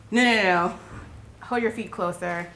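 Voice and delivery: lightly voiced scolding corrector, quick insistent bursts; prayer police. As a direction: imitate someone fussily correcting a child's posture. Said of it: "The prayer police were very concerned with my posturing".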